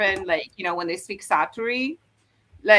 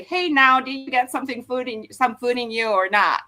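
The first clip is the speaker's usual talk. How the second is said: bouncy Jolla-style question; flowing Jeolla dialect, lightly done; expressive and flowing; 2 semitones higher than usual. Shown as a demonstration. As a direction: sing it out warm and bouncy like a rapper. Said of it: "very expressive and flowing".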